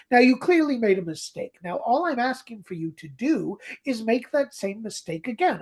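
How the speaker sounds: patronizing. Retold or imitated. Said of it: "she's patronizing".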